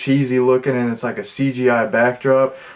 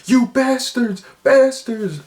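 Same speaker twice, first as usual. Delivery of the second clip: much higher, shrieking mock scream of a hysterical lady; hysterical scream imitation; 12 semitones higher, slower than usual. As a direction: shriek it like a movie lady losing it. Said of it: "I didn't even say that right".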